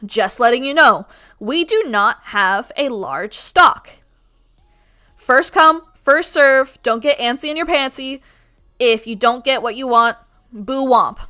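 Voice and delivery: loud, carrying announcement to a crowd; projecting theme park voice. Retold or imitated. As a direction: project to the back of the line like a park worker. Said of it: "I project in my loud voice".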